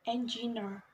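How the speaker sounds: "engineer" stressed on its last syllable, NEER; third-syllable stress. Shown as a demonstration. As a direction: put the weight on the NEER of "engineer". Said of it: "stress on the third syllable".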